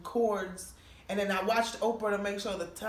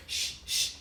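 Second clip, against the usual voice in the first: shushing. Retold or imitated. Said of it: "He's like".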